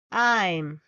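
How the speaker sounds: I'm said as one syllable, aim; I'm, one short sound; contraction I'm. Shown as a demonstration. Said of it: "we pronounce it as I'm".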